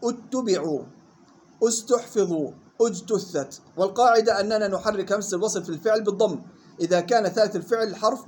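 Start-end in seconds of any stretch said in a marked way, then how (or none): 0.0-3.6 اتبعوا، استحفظوا، اجتثت each begun on "u"; initial damma. Shown as a demonstration. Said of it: "بهمزة مضمومة ومثلها". (اتبعوا، استحفظوا، اجتثت بهمزة مضمومة)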